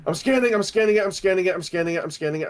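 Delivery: frantic repeated muttering, fading; panicking gamer. Real, not acted. Scanning near the monster.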